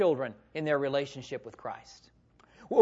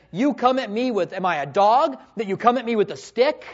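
indignant giant's challenge, pitched up; Goliath, angry; 3 semitones higher, 4 dB louder than usual. Acted. Giant insulted by a boy with a stick, angry. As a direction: act out an affronted taunt. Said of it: "Goliath is so angry".

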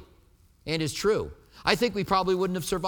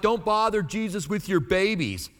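higher, brisk voicing of the disciples shooing parents away; disciples brushing people off; 5 semitones higher than usual. Preacher voicing disciples turning parents away, dismissive. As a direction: play the annoyed disciples, a bit higher. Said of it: "So they were like".

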